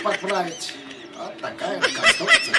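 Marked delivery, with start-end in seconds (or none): 1.2-2.5 laughing. Real, not acted. Laughing at own tool.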